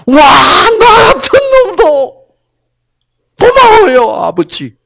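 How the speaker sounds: 아주 높고 크게 울먹이듯 외치는 감사; 벅차서 울컥하며 외치기; 감격한 외침. Acted. 천국에 간 사람의 감격. (천국에 들어간 사람이 아버지께, 감격에 찬 외침)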